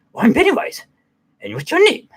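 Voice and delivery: high, coaxing clown voice; Pennywise voice. Retold or imitated. Clown introducing himself to the boy, high and coaxing. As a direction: sweet-talk him like a creepy clown.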